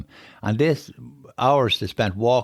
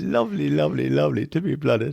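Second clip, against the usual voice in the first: emotional; 6 semitones higher than usual. Real, not acted. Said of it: "Sorry, I'm getting emotional".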